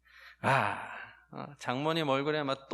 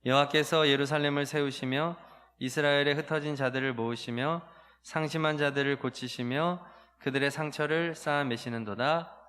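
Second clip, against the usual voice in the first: usual speaking voice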